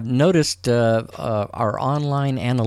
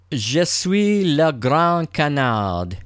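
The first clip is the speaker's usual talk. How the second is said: slow, careful French "Je suis le grand canard"; French phrase; 4 semitones higher, much slower than usual. Shown as a demonstration. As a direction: say it slowly in French. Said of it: "to all our French listeners out there".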